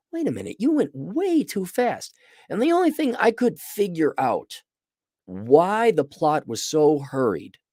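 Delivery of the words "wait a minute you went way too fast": higher, mildly put-on voice of protest; mock protest. Reviewer scolding the show: mock protest. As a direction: object to the rushed pacing. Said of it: "I'm like".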